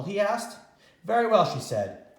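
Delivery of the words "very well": high, loud eager agreement; bright exclaim. Acted. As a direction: sing out a cheerful yes. Grandma agrees again.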